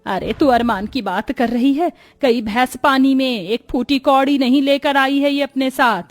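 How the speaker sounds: lightly voiced aggrieved mother-in-law; lilting, mildly scornful complaint; grumbling mother-in-law. Mother complains to daughter about no dowry, grumbling.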